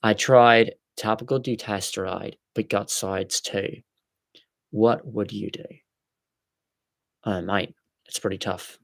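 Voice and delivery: reading a message in mock Aussie; put-on Australian accent. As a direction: pretend to be an Australian mate. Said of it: "Should I do the rest of my live stream in Australian?".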